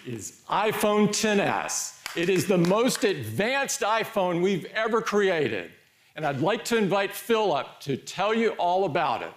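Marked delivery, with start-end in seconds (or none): 0.1-5.0 product keynote reveal. Acted. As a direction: unveil it with a beat of suspense. Keynote reveal of new phone.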